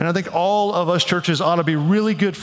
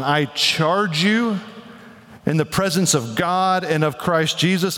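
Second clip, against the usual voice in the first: solemn charge. Retold or imitated. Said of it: "You can't get any more serious than to tell someone".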